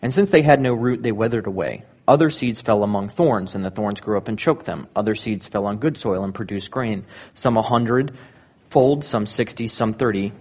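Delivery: measured Bible reading, rising to a call at the end; scripture reading. Acted. Pastor reading the parable of the sower to the congregation, solemnly.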